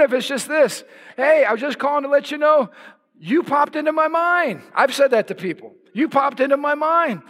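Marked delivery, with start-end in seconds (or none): 1.2-4.6 higher-pitched, upbeat caller; light, acted check-in call; friendly phone greeting. Acts out an encouraging phone call. 5.9-7.2 higher-pitched, upbeat caller; light, acted check-in call; friendly phone greeting.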